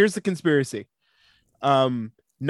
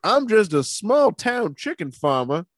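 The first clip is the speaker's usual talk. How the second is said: small town chicken farmer; 3 semitones higher than usual. Pretend.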